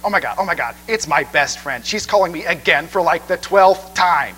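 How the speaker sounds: a hint of a gushing best friend squealing; annoying ringtone voice. Preacher imitating his wife's ringtone, a mildly annoying gushing voice. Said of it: "exceedingly annoying voice".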